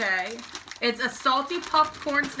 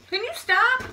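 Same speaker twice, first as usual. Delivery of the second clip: annoyed; 12 semitones higher, 6 dB louder, slower than usual. Real, not acted. Sibling annoyed at teasing.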